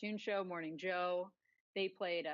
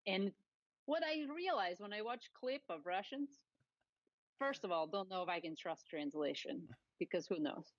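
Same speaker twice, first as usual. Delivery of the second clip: light mock Russian accent, articles dropped; a hint of a Russian commentator; mild Russian accent, deadpan. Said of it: "your Russian accent".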